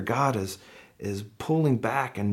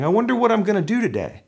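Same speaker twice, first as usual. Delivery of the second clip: high, quick, singsong musing; mock idle wondering; 9 semitones higher, 3 dB louder, much faster than usual. Pastor imagining God tinkering around, mock idle wondering. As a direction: pretend to wonder aimlessly, pitched up and fast. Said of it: "not tinkering around going".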